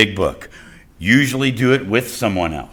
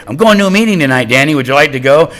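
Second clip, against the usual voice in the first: imitating girlfriend's invitation; 2 semitones higher, 4 dB louder, faster than usual. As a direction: chirp a hurried invitation, imitating her. Voicing girlfriend's nightly meeting invitation.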